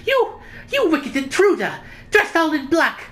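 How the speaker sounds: shrill-high accusing lady, well above his own voice; high-pitched Pavlova. Acted. Pavlova accusing the intruder in a high-pitched voice. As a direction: shriek the accusation in a high put-on voice. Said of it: "the really high-pitched voice".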